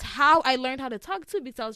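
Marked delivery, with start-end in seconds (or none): 1.0-1.4 higher and louder, slow; high-pitched voice. Shown as a demonstration. Still demonstrating her old high voice to her friend. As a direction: keeps the high voice going. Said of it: "talk like this".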